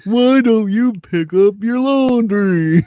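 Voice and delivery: high, loud mock-nagging wife; Marge Simpson. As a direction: nag in an exaggerated cartoon voice. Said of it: "like the Marge Simpson voice".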